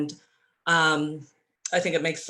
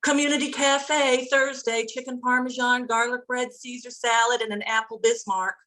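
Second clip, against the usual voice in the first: higher, brighter-pitched pitch for the cafe menu; upbeat plug; 7 semitones higher than usual. Real, not acted. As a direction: sell the menu with eager energy. Quick plug for Community Cafe menu.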